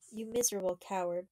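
put-on a girl furious at a coward; blazing anger. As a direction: spit the insult at him. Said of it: "blazed the girl".

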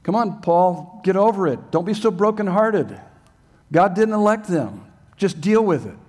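a hint of a smug lecturer telling Paul to get over it; mocking Calvinist. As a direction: brush off Paul's grief in a mild mock voice. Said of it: "I've heard Calvinists say that to me".

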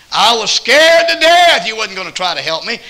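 high, loud, tearful pleading; crying woman's plea. Retold or imitated. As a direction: cry it out like a scared woman. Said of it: "She was crying".

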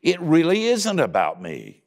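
a sudden dawning, voice up and loud; surprised realization. Retold or imitated. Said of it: "I went".

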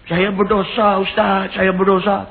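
imitated crying. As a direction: act out a tearful plea to the preacher. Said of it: "Teriak, hui".

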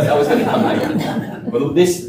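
chuckling through the words; breaking into laughter mid-sentence; laughing. Real, not acted. Laughing at killing the king.

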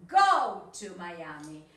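I'm going to go to Miami read very slowly; slow emphatic model; slow reading aloud. Shown as a demonstration. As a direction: read the student's line slowly and loudly. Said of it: "este es el tuyo, por ejemplo".

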